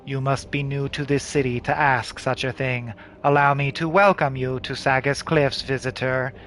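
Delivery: formal, even-toned city guard; officious soldier. Acted. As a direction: recite orders like a polite automaton. Voices the levy soldier.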